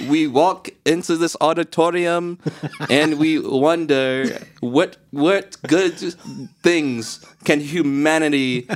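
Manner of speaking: halting, lofty announcement to the hall; mock award-ceremony speech. Presenter addressing the Nobel auditorium, mock solemn.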